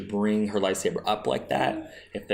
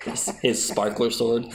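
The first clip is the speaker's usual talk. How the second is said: laughing through the words; amused, breaking into laughter. Real, not acted. Both joking about sparkler sword.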